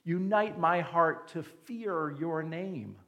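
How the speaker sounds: a hint of tender prayer; slow David prayer, gently; humble prayer. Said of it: "as David did".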